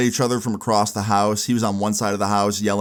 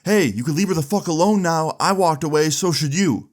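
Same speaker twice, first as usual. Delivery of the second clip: higher-pitched mock yell, no real volume; retold yell; 5 semitones higher than usual. Ex-boyfriend tells them to leave her alone, mildly yelled retelling. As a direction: imitate a guy yelling from behind, held back. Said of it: "we hear this guy yell".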